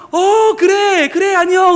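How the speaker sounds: high, drawn-out happy hello; acted cheery reply from afar; beaming greeting. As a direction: call back delightedly to a friend, slowly. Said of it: "환한 얼굴로".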